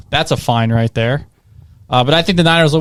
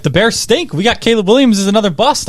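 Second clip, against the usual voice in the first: excited trash talk; 6 semitones higher than usual. Retold or imitated. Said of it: "I'm like".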